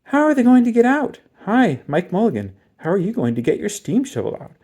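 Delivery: loud, high calling out; crowd calling down. A narrator's reading. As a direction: shout down into the cellar. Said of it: "everyone said".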